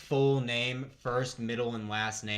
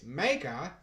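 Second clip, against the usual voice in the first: put-on terrible Australian accent. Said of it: "That was a terrible Australian accent".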